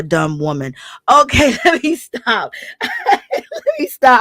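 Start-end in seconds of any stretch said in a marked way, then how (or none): 1.1-2.5 laughing. Real, not acted. Laughing at own rant. 2.6-3.1 high laugh burst. Real, not acted. Laughing at own rant. 3.1-4.2 laughing. Real, not acted. Laughing at own rant.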